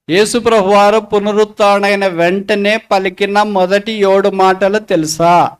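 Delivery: slow, measured repeat of the question; deliberate repeat. Real, not acted. Preacher re-asks the congregation about the seven words, slow and deliberate. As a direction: spell it out slowly for the congregation.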